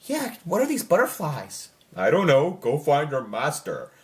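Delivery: lightly voiced, bored back-and-forth between two characters; flat mock scene dialogue. Vlogger mocking a dull Wednesday scene, a flat bored voice. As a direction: read it like a scene with no life in it.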